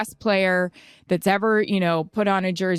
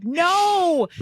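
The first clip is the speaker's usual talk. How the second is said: mock refusal; 10 semitones higher than usual. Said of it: "And I was like".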